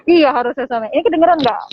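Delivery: muffled by a face mask; through a face mask. Real, not acted. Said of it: "takutnya pakai masker".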